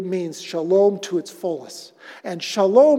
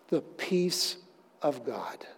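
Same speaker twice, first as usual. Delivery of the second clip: whisper; 5 semitones lower, 10 dB quieter, slower than usual. Acted. Whispered phrase.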